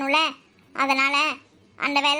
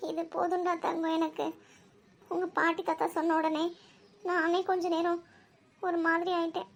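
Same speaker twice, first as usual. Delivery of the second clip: soft, emotional reassurance; tender, moved; 5 dB quieter than usual. Acted. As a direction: hold her close with words. Aunt touched, consoling niece. (நெகிழ்ந்த மென்மையான ஆறுதல்)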